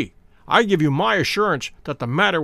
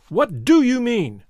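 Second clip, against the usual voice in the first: insistent demand; 6 semitones higher than usual. Acted. Visitor pressing Holmes to stop bluffing, slow and insistent. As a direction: drag the question out as a threat. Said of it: "Let us have no more beating about the bush".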